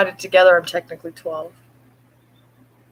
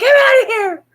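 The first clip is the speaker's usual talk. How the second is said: much higher, louder laughing cat voice; voicing the cat; 6 dB louder than usual. Owner voicing cat leaving again, laughing high cat voice. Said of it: "She's like".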